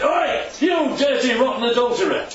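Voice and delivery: mock angry shout. Preacher mocking a blunt prophet: loud scolding yell. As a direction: shout it like a scandalised accuser.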